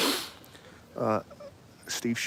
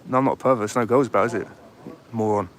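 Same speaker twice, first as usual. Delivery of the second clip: raised voice, snapping back in irritation; angry retort; 4 dB louder than usual. Real, not acted. Vlogger snapping back at a passer-by who calls him a pervert, annoyed. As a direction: push back hard at the insult.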